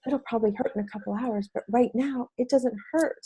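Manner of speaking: a small quiet explanation; soft child quote. Retold or imitated. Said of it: "she said".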